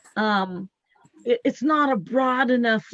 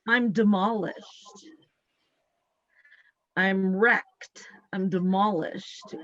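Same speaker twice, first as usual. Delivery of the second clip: subdued heavy admission; 2 semitones lower, slower than usual. Retold or imitated. Healer voicing the feeling in her chest, heavy and subdued. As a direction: let each word land heavily. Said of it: "And it was".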